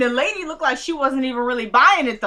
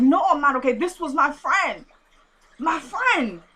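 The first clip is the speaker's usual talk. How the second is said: higher, drawn-out mock grief; mock distraught; 5 semitones higher than usual. Veronica to the lady about her friend, mock distraught. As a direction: wail it a little, imitating a bereaved friend.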